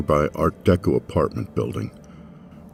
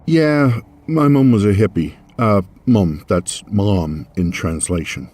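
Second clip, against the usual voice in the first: flustered babble; 3 semitones higher, 3 dB louder than usual. Acted. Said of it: "flustered explanation".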